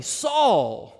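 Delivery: a direct, personal calling of the name. Retold or imitated. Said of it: "cry out personally".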